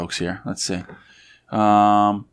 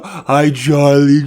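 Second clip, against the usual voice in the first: high, loud, drawn-out squeal; dog-greeting baby talk; 5 semitones higher, 7 dB louder, much slower than usual. Pretend. Podcaster shows how one greets a dog, high squealed baby talk. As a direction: gush at a beloved dog.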